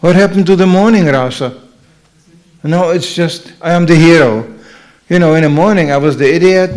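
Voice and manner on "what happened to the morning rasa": mock-baffled hey hey with a laugh, pitched up; laughing surprise. Husband puzzled at wife's sudden sweetness, laughing surprise. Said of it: "You think".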